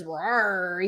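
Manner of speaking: mock mountain lion rawr; imitated growl.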